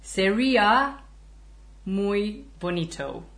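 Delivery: put-on British English accent, careful on mucho dinero. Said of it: "un acento estándar británico".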